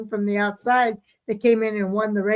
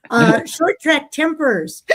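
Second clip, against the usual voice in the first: hiccups; 4 semitones higher, 3 dB louder than usual. Real, not acted. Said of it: "I got the hiccups all of a sudden".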